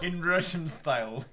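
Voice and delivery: laughing. Real, not acted. Mock Russian accent attempt.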